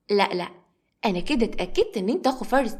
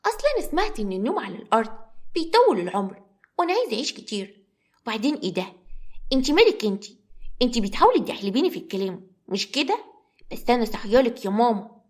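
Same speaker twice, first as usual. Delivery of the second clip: put-on sassy little girl. Little girl speaks sassily.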